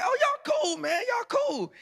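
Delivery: very high, loud mimicry; retold giddy approval. Storyteller replays new friends hitting it off, high gushing approval. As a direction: gush approval in a high mock voice.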